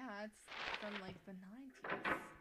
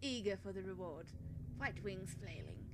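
put-on lightly done English accent. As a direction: read the riddle in an English accent. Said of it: "I can do an English accent".

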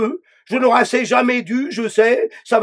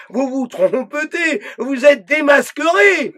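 mildly raised, hectoring voice of the inner dictator; scolding inner voice. Acted. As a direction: lecture her like a harsh inner judge, barely acted.

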